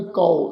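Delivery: ਕਉ pronounced "kau"; kanaura vowel. Shown as a demonstration. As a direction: demonstrate ਕਉ with an "au" vowel. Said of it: "ਕਨੌੜੇ ਦੀ ਮਾਤਰਾ ਲਗਾ ਕੇ".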